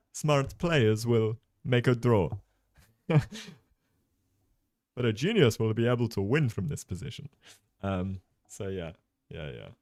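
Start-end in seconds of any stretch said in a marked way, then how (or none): 0.1-2.3 put-on Italian English accent. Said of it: "Italian English accent I've got to nail". 5.0-7.3 put-on Italian English accent. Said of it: "Italian English accent I've got to nail".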